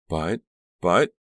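stuck, flustered stammer; sputtering. A narrator's reading. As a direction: sputter as if lost for words. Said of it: "Karina sputtered".

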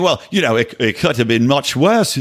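put-on botched New Zealand accent on WORSE; bad New Zealand accent. Host mimicking the actor's tweet, bad New Zealand accent. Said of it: "not a good New Zealand accent".

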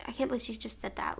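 a soft whispered disbelief, under the breath; retold whisper. Telling family about her friend's remark, whispered disbelief. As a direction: breathe it out like it still stings.

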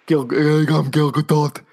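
lightly voiced Gal Gadot accent; a hint of a breathy Israeli starlet; Gal Gadot impression. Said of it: "She doesn't sound like that".

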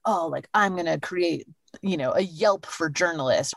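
light parody of a tech bro. Retold or imitated. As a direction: mimic a Silicon Valley tech bro. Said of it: "I love her tech bro voice".

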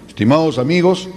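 speaking with a smile; smiling. Shown as a demonstration. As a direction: smile through the words. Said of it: "hoy sonríe".

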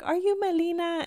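high-pitched hopeful question; imitating eager fan. Acted quote of approaching fan.

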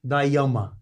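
"Yama" with the ending of Yamaha dropped; Portuguese pronunciation. Shown as a demonstration. Explaining the local name of the jacket brand, "Yama" cut short. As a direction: say "Yama" in two syllables, no "ha". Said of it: "Lá chamam de Yama".

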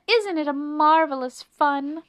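high, loud delight; thrilled city mouse over traffic; gleeful shout. A narrator's reading. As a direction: revel in the noisy ride.

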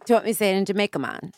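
playful Jamaican accent. Shown as a demonstration. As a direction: put on a light Jamaican accent. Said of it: "She hates my Jamaican".

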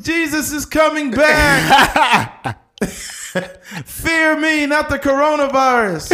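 high slow yelling through laughter; laughing high proclamation; mock street preacher shout. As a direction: bellow like a doomsday preacher. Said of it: "he's like".

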